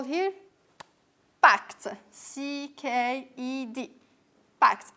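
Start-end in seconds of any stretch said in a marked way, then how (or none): 1.4-1.9 "packed" said with a released T for ED; K and T ending. Shown as a demonstration. Teacher models past simple for the class, "packed" ending K-T. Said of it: "it's pronounced K and". 4.6-4.9 "packed" closing in K-T, no D; K and T ending. Shown as a demonstration. Teacher repeats past simple word, "packed" ending K-T. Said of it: "it's pronounced K and".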